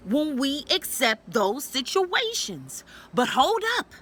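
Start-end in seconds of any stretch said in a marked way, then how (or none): 3.1-3.9 sudden stop. Real, not acted. Stops herself mid-thought.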